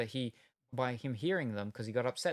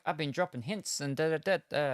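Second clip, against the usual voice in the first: excited; 4 semitones higher, 4 dB louder than usual. Retold or imitated. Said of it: "and she's all excited".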